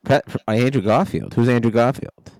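put-on confused old New York voice; puzzled ghost commissioner; David Stern impression. Ghost character confused by name.

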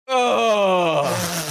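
relieved groan. Retold or imitated. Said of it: "be like".

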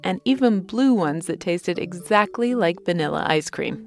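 lively sponsor anecdote with punched words; ad read. Acted. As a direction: tell the trip like an enthusiastic advert. Host tells sponsor travel anecdote.

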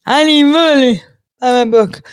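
high, put-on begging voice; mock a desperate sales pitch; mocking plea. Mocking someone who hawks a book for money, whiny plea.

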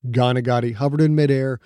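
measured, dramatic storytelling voice; audiobook narration. Acted.

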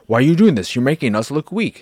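high-pitched mock complaint; lightly acted exasperated protest; mock indignant. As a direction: imitate an indignant scolding, pitch up. Venom scolding Brock, retold.

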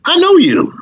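excited recognition. Retold or imitated. Lady recognizes him in barbershop.

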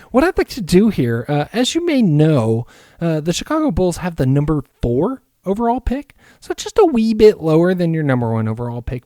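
a hint of a smarmy front office guy; mock Bulls GM. Pitching a trade to the Wolves GM in a put-on smooth GM voice. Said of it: "Why does the Chicago G M sound like I wanna kick his ass?".

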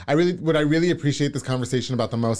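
slightly slurred, tipsy speech; words a little slurred from drinking; tipsy slurring. Real, not acted. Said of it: "I'm slurring my words 'cause I'm a little tipsy".

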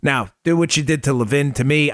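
ordinary talk

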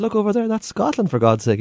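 high, impatient pointing it out; exasperated. Retold or imitated. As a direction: talk down to a fool. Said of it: "I said".

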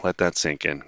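dry, unimpressed repeat of let that sink in; mock the line flatly, eyes rolling; sarcastic, unimpressed echo of let that sink in. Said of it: "Okay, Elon".

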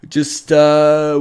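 words stretched through a real yawn. Real, not acted. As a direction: talk mid-yawn, mouth wide open. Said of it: "yawning there".

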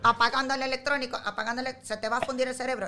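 voz de robot algo aguda, con risas. Acted. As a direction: advertir como robot al niño. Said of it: "Pero hazlo completico". (robot apagador que advierte al niño)

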